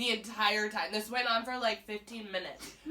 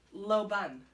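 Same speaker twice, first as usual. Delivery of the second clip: deadpan order. Retold or imitated. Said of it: "So serious".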